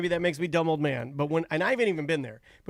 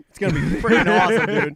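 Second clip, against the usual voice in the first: excited; 6 dB louder, faster than usual. Real, not acted. Excited about Black Lagoon coaster.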